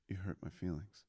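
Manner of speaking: quiet, hurt and small; sad. Retold or imitated. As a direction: say it softly, wounded. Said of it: "all sad".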